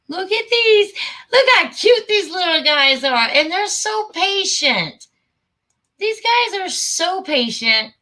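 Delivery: high, adoring coo, slowing down; gushing. Real, not acted. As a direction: melt over how cute they are. Gushing over children in village.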